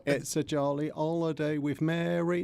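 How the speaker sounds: slow, hammed-up fake Cockney accent; American Cockney. Shown as a demonstration. Guest borrowing the American version of Cockney, mock Cockney accent. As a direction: do Cockney as an American film actor would. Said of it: "I'm doing American Cockney".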